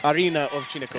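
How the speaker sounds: Arina Ovchinnikova in a light Russian accent. Shown as a demonstration. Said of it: "really bad Russian accent".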